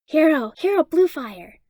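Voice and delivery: put-on high, loud, slow squeak of a small child; a little boy squealing out a hero name; high slow excited squeak; squeaky kid. A narrator's reading. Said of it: "Hitoshi squeaked".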